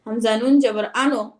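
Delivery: হামজা নুন জবর আনো with the wrong ending আনো; wrong reading. Shown as a demonstration. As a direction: demo of the wrong way, saying আনো. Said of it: "এরকম কেউ কখনো বলবেন না". (ভুল উচ্চারণ দেখানো)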